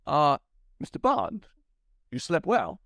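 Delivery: hammed-up Walken, kept together; Walken retake. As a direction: redo the villain line straight. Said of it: "Let me do that again".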